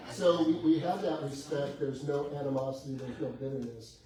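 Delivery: usual speaking voice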